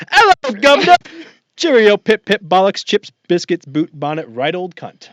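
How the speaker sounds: mock British accent. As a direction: start as a hammed-up Brit and let it drain away. Repeats the mock British title.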